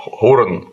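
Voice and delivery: put-on «Хурен» said as a rough old German word; «Хурен» sounded out tentatively; approximate old German pronunciation. Shown as a demonstration. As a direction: demonstrate «Хурен» as a foreign word. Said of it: "как-то вот так оно звучит".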